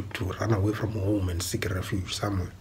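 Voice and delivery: hushed whisper; whispered aside. Real, not acted. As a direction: drop to a whisper. Aside in ranting monologue.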